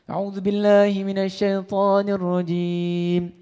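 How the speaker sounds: slow, melodic tilawah; Quran recitation. Acted. Preacher quoting Allah's promise, recited slowly and melodically.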